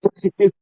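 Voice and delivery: short high laugh. Real, not acted. Podcaster amused by caller's New York accent idea, short laugh. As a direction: burst into a brief laugh.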